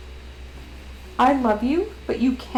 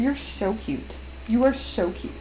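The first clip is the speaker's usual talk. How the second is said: soft cooing; 6 dB quieter than usual. Real, not acted.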